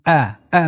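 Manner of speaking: light, thin 'ا' at the throat; thin hamza. Shown as a demonstration. Teacher shows students the thin hamza, said lightly.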